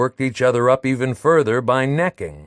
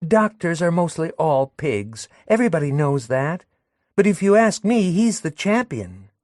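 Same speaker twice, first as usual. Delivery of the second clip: put-on higher, scornful young woman; Madelon's verdict; 7 semitones higher than usual. Madelon judging doctors to Léon, higher scornful voice. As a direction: deliver the verdict with relish.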